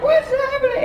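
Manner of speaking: high-pitched yelled question; high yelling What's happening; screamed at the top of lungs. Retold or imitated. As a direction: scream it out in panic. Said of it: "I scream it out at, at the top of my lungs".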